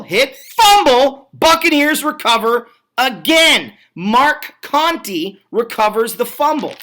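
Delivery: sudden high, loud burst as the ball comes loose; excited fumble call. Real, not acted. Commentator calling a fumble in the rain, excited and loud. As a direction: shout the fumble, stretching the words. Fumble called in live play-by-play.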